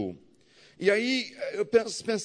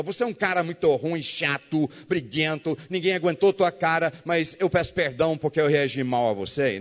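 fake apology. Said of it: "Isso não é pedir perdão".

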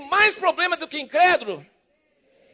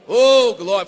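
normal talking voice

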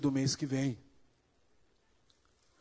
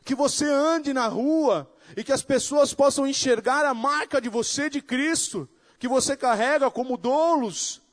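higher and louder, fervent preaching; preaching at full force; 10 semitones higher, 6 dB louder than usual. Acted. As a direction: build it up like a pulpit climax. Preaching climax. (pregação inflamada, mais aguda e mais alta)

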